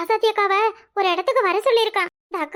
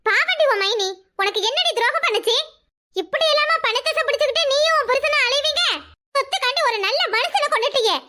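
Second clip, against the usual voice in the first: higher, heated cursing tirade; angry accusation; 4 semitones higher than usual. Acted. Accusing her sister-in-law of murder, furious tirade.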